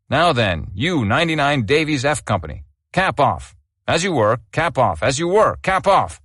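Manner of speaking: sharp drill-square orders, rising in pitch; barking sergeant major. Acted. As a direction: bark it at the prisoner like a sergeant major. Sergeant major barks at prisoner.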